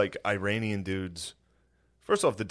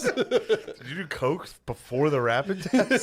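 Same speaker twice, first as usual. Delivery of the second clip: suspicious doctor voice; 7 semitones higher, slower than usual. Retold or imitated.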